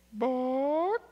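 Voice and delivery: high squawky chicken bark; talking chicken. Acted. Chicken answering the husband, high and squawky. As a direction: squeak it out like a bird.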